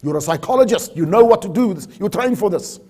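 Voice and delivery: mildly worked-up imitation of an exasperated boss; upset boss. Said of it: "he gets really upset and says".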